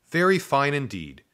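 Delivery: delighted praise. A narrator's reading. Teacher approves pupil's count, delighted. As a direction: approve heartily, voice lifted. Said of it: "Missus Butterhen looked delighted".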